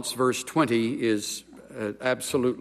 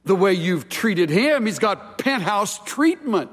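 sarcastic; 4 semitones higher than usual. Retold or imitated. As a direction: sneer it out like a cynic. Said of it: "standard operating procedure of sarcasm".

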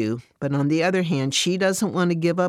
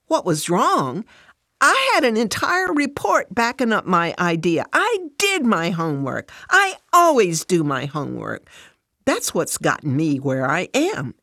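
defensive and indignant, pitched up; hurt pride, raised and insistent; 3 semitones higher, 3 dB louder than usual. Acted. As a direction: protest that you always do the job right. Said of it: "Fran responds... A bit defensive".

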